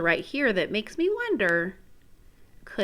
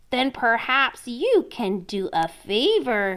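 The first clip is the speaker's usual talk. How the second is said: frog voice; 3 semitones higher than usual. Acted. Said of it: "he added".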